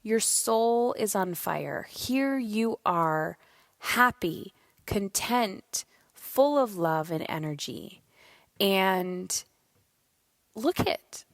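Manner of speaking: slow, tender, proud mother; tender praise. Retold or imitated. Mother telling her son his soul is on fire, tenderly. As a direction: savour each word as you praise your son. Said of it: "I just look at him and I was like".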